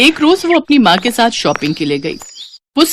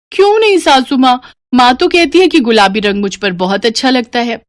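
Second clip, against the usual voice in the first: put-on higher, bubbly young voice; playful daughter; 3 semitones higher, 3 dB louder than usual. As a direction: show off the sari to mom. Bride questions mother-in-law. (चुलबुली बेटी, ऊँची आवाज़)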